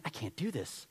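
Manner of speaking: David in the cave, quietly refusing to act; quiet refusal. Acted. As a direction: say it low, losing nerve. David losing nerve in cave.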